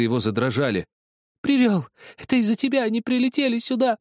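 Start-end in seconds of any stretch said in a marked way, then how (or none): 1.4-4.0 put-on high, loud child's accusation; accusing scream. A narrator's reading. Zakhar screams at Helmut that he is German, high and loud. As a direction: hurl the accusation at him.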